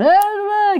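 mock a warm-up act revving the crowd; warm-up comedian. Imitating the warm-up comedian rousing the studio audience, hammed-up whoops. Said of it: "like, going".

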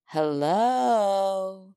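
lilting, enthusiastic feminine hello; female voice. A narrator's reading. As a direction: call it out like an eager woman. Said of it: "in a female voice".

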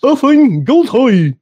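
hammed-up Southern accent, very high and loud; over-the-top bad Southern accent; Keanu Reeves. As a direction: belt it out in an awful, stretched Southern drawl. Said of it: "His Southern accent was awful".

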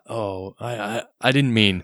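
light, halting film-star imitation; half-hearted Western hero impression; Clint Eastwood. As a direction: lightly attempt the actor's accent, hesitating. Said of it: "your Clint Eastwood accent here".

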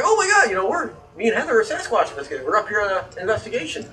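high and excited, telling a stranger; a fan who can't contain himself, pitched high; excited gush. Retold or imitated. Telling the tour guide about hunting Sasquatch, high and excited. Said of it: "I'm like".

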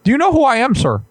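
a hint of an offended professor; Jordan Peterson. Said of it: "Jordan B. Peterson".

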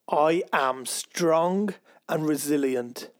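slow, deliberate, as if you truly believe it; confident affirmation. Shown as a demonstration. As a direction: state it like a firm declaration to the universe. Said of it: "You've gotta say it as though you believe it".

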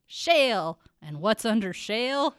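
lightly voiced cranky old uncle; Jasper. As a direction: drill the niece like a crusty old-timer. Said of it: "after my lines".

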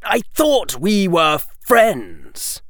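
Draco voice; plead, wounded; slow, hurt young boy. Acted.

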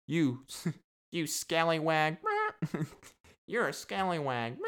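giggling through a mock scold; laughing parrot insult. Parrot calls a visitor a scallywag, laughing mock scold. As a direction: scold playfully while laughing.

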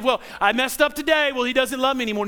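mock the one who thinks God quit on them; mopey believer. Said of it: "no theology of".

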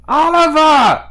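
high, loud scream of a name; high-pitched shout across the room. Acted. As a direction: cry the name out at full voice. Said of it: "And I scream".

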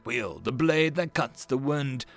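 rally the kingdom to battle; rousing royal speech. Acted. Queen's rallying war speech.

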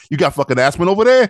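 lightly hammed-up street-talk accent. Shown as a demonstration. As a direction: parody a street guy's challenge. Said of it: "It just sounds like you're from the street".

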